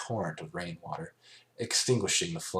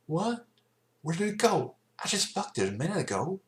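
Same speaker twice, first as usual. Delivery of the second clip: much higher, louder alarmed voice; whirling round in shock; startled Applejack; 12 semitones higher, 3 dB louder than usual. A narrator's reading. Applejack finding the creature gone, startled.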